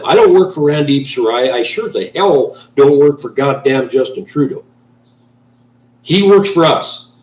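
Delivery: fed-up citizen venting, voice pushed up; real anger. Real, not acted. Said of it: "I'm kind of upset right now".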